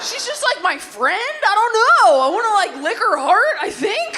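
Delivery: a straight guy gushing about his crush; giddy lovestruck gush. Acted. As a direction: gush like a smitten boy.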